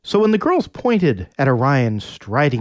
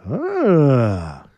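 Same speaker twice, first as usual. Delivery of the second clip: Orion grunt. Acted. Orion voiced in story.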